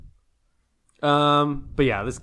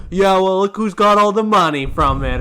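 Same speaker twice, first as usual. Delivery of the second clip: comedian's comeback; 6 semitones higher, 6 dB louder than usual. Retold or imitated. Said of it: "he went".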